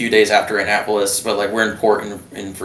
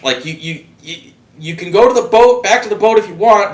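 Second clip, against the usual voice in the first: mock medical staff; 11 semitones higher, 6 dB louder than usual. Voicing the squadron medical staff.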